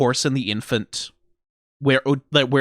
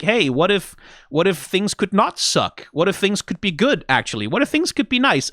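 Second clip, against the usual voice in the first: encouraging Polites; 5 semitones higher than usual. Retold or imitated. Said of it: "Polites is encouraging him".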